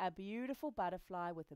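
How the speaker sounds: ordinary delivery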